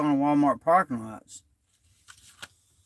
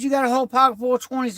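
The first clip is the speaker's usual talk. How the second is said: higher and fast, indignant; indignant shout; 5 semitones higher, much faster than usual. Retold or imitated. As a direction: throw the question back in anger. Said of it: "So then I said".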